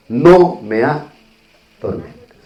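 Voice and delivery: slow, drawn-out plea from the demon; begging demon. Retold or imitated. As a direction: stretch it out, begging not to be tormented. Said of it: "este demonio le dice a Jesús". (el demonio suplica muy despacio que no lo atormente)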